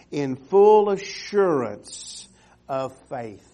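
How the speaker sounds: full assurance stretched slow and loud; drawn-out emphasis. Acted. Preacher driving the verse home to the church, slow and loud. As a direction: lean hard into "full", then drop on "of faith". Preacher stresses scripture phrase.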